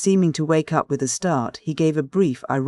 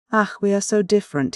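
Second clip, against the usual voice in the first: higher-pitched, exasperated exclamation; anguished cry; 6 semitones higher than usual. A narrator's reading. Man despairing of being understood by Sonia, crying out. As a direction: cry out at the gulf between them. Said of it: "he cried again".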